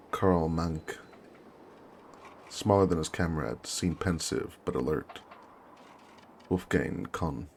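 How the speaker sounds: measured war-diary reading; story narration. Acted. Officer recounts arriving at the trenches, measured narration. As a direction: read it as a deliberate journal entry.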